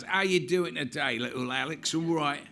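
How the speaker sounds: breezy bedside cheer from a bluff stuntman; hearty stuntman surgeon. Retold or imitated. Stuntman surgeon greets little Alex in bed, hearty and loud.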